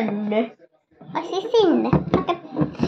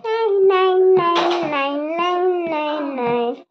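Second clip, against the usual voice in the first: high bouncy little creature; playful toy voice; 5 semitones higher than usual. Pretend. Toy riding the horse, high bouncy voice. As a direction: bounce each word up.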